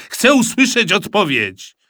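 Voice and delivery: loud, high impatient dad; shouted demand. A narrator's reading. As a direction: insist over the child's chatter. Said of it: "krzyknął tata". (zniecierpliwiony, podniesiony głos taty)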